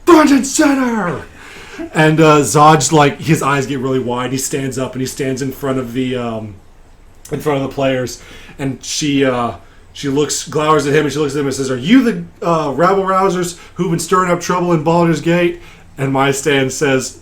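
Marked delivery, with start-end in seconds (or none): 0.1-1.2 high, loud commander's shout; drawn-out parade-ground order, pitched up; very stern woman. Acted. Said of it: "this very stern female voice". 11.7-15.6 higher, lightly voiced officer; a hint of stern interrogation; stern commander. Stern commander questions the players.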